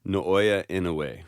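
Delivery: "Naoya Inoue" said slowly, with a light middle syllable in "Inoue"; careful name pronunciation. Shown as a demonstration. Co-host showing how he says the name, careful pronunciation. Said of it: "I would say".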